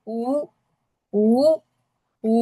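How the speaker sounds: উ drawn out with a moving tone; changing tone. Shown as a demonstration. Teacher asks listeners to notice, tone moving on উ. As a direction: isolate each উ and let the pitch bend. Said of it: "আমার কিন্তু tone change হচ্ছে".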